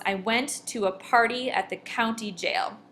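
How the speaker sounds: "I went to a party at the county jail" read with marked beats; "I went to a party at the county jail", spoken rhythmically, not sung; exaggerated stress. Shown as a demonstration. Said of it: "I will over-exaggerate it".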